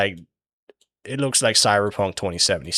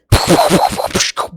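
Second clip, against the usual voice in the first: imitated beating noises; 10 semitones higher, 8 dB louder than usual.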